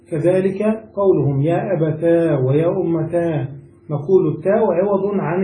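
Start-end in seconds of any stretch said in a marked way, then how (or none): 1.4-3.5 "أبتا" and "أمتا" ending in long -taa; ta plus long alif. Shown as a demonstration. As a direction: lengthen the closing aa of "أبتا" and "أمتا". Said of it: "نجمع بينها وبين الألف".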